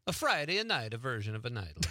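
hammed-up Italian accent with extra syllables; mock Italian accent. Shown as a demonstration. Host showing his co-host the botched intro, mock Italian accent. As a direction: put on a silly Italian accent. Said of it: "Well, let's hear it".

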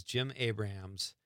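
"Abrahams" said as Abra-hams, with an H; three-syllable Abrahams. Real, not acted. Co-host recalling the Airplane writer, "Abrahams" in three syllables. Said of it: "am I just saying it wrong".

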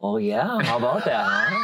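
crowd someone as a dorky dad; hammed-up in-your-face chatter, swooping questions; close talker. Shown as a demonstration. Demonstrating his dorky dad character on the cohost, mock close talker. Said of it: "the quality of being a close talker".

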